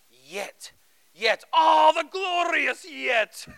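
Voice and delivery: imitating professor's accent. Pastor imitating his seminary professor preaching in chapel, booming. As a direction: ham up the preaching professor's big moment, slow and soaring. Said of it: "he says with this great accent".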